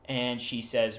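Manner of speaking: ordinary talk, nothing marked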